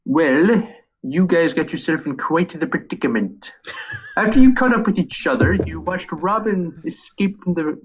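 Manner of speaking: lightly voiced nerdy comic shop owner; a hint of a smug, nasal know-it-all; Comic Book Guy. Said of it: "get Comic Book Guy's voice down".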